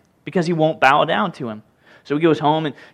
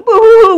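much higher and louder boo-hoo-hoo; sulking villain's fake crying, hammed up; mock sobbing; 13 dB louder than usual. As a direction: ham up a baby's wail. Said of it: "goes home and goes".

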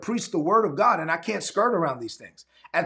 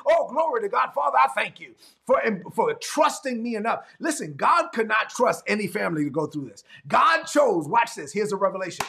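fired-up preaching; 3 semitones higher than usual. Acted. Pastor preaching to his online congregation, fired-up preaching. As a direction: preach it hard to the church.

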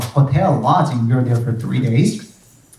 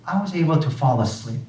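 normal talking voice

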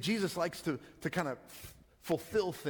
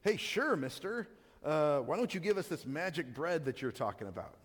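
sarcastic. Shown as a demonstration. Crowd mocking Jesus' offer of bread, sarcastic. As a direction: sneer the request at him. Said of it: "we know that it's sarcastic".

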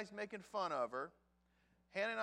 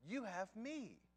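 flat, deflated echo; 2 semitones higher, 5 dB quieter, slower than usual. Acted. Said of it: "And we all know the answer".

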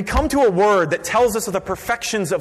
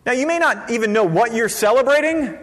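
normal talking voice

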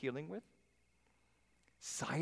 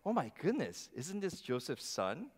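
surprised townsfolk; 2 semitones higher than usual. Retold or imitated. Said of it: "I think it first went".

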